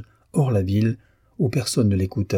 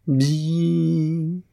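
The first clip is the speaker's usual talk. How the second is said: violin note; 7 semitones higher than usual. A narrator's reading. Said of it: "fit l'archet sur la note la plus grave".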